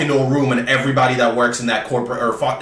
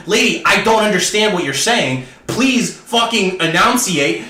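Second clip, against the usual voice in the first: higher, emphatic frustration, slowing at the end; exasperated plea; 4 semitones higher than usual. Retold or imitated. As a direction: act out begging someone to speak clearly. Acted exasperated plea to the proctor.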